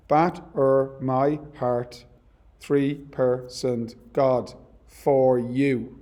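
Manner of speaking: slow, stressed iambic reading of Batter my heart; metrical reading. Shown as a demonstration. Teacher reads the sonnet line to students, slow and metrical. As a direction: read "Batter my heart, three-personed God, for you" slowly, beat by beat. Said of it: "Just look at the first line".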